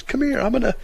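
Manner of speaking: mock threatening yell, pitched high; imitated yelling. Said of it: "He's yelling at me".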